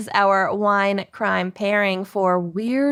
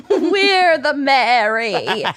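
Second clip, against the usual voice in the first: laughing; 2 semitones higher, 4 dB louder, much slower than usual. Real, not acted. Repeats through laughter.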